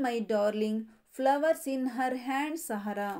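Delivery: sing-song nursery rhyme reading; rhyme recitation. Shown as a demonstration. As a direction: recite the rhyme steadily for children. Teacher chants rhyme verses. (ಮಕ್ಕಳಿಗೆ ಪದ್ಯ ಓದುವ ಧಾಟಿ)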